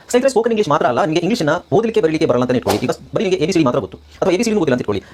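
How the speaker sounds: brisk promotional announcement; fast sales spiel to viewers; course advert read. Acted. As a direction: rattle through the course pitch.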